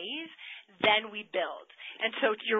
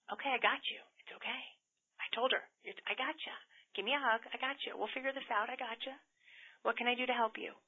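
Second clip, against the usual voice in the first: soft comforting; 2 semitones higher, 6 dB quieter, faster than usual. Retold or imitated. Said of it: "It was very comforting to her".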